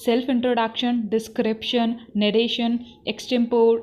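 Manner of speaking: slow, deliberate reading of syllabus headings; syllabus dictation. Shown as a demonstration. Teacher reading the syllabus to trainees, slow and deliberate. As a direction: read each item out slowly so students can note it. Reads syllabus items slowly aloud.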